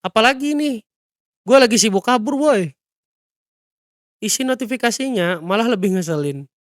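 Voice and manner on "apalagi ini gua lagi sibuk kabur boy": higher-pitched exasperated complaint; acted irritated griping; grumbling. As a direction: grumble in harried annoyance. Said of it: "Si Skomcul ngomel".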